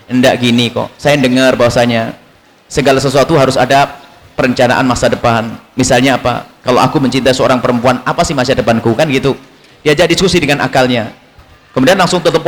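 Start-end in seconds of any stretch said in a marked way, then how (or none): 0.1-8.9 low-pitched tactful reasoning; lightly acted careful, sweet persuasion; gentle, sweet approach. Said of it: "Harus dengan cara yang manis".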